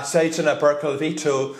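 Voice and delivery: Seitsemä Perkel Vittu rattled off as Finnish curses; teaching Finnish swear words; Finnish swearing demo. Shown as a demonstration. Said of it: "That's how you say it".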